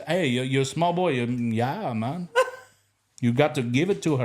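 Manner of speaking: a lightly voiced Ghanaian tease; Ghanaian accent. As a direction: Ghanaian coworker teasing about a wife, in a Ghanaian accent. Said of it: "the way he said it".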